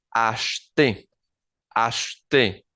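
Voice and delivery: acheter said as ash-tay, first e swallowed; acheter, French ash-tay with the first e dropped. Shown as a demonstration. Teacher modelling the French verb, acheter said ash-tay. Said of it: "la primera E no suena como E".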